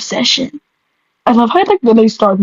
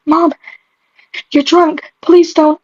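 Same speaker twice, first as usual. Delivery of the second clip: higher-pitched, understated plea; pleading; 6 semitones higher, slower than usual. A narrator's reading. Daughter begs her drunk mother to stop, pleading. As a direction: plead with a raised pitch and a pause after the first word. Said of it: "I plead".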